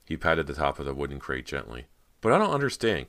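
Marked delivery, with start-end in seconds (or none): 2.2-3.1 high, loud, distressed protest; choked out. A narrator's reading. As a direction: blurt it out in upset confusion. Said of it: "Cody choked out".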